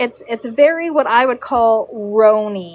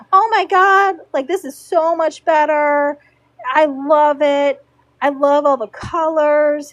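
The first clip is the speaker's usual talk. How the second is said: gushing delight; 2 semitones higher than usual. Retold or imitated. Delighted client gushing over tail.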